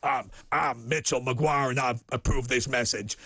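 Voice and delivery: lightly put-on American candidate; American accent. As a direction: approve the message like a US politician. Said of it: "my American impersonation".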